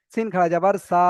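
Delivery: সিন খাড়া যাবার সা with the last সা held long; elongated final SA. Shown as a demonstration. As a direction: spell it out, then stretch সা. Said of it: "বানান করার সময় টান দিয়ে".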